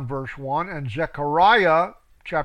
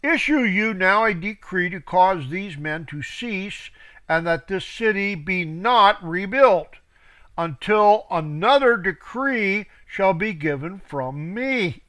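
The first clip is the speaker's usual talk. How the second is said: winded while reading aloud; out of breath; 2 semitones higher, 4 dB louder than usual. Real, not acted. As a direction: read it short of breath. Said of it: "I'm out of breath here again".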